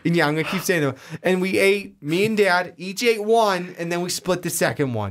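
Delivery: mock Boston storyteller; pretend Boston accent. Cohost telling of eating with Dad, pretend Boston accent. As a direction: keep up the fake Boston talk. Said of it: "Do you like my Boston accent?".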